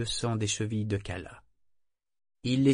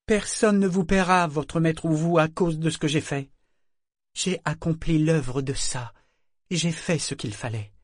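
put-on defiant boy; 6 semitones higher, 4 dB louder than usual. A narrator's reading. Boy defiant toward broker.

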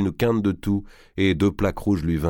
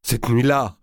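a louder, blurted cette nuit-là with a falling end; stammered; 6 semitones higher, 5 dB louder than usual. A narrator's reading. Prince stammers to his father, a blurted cette nuit-là. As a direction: stumble out the words cette nuit-là. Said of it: "bredouilla-t-il".

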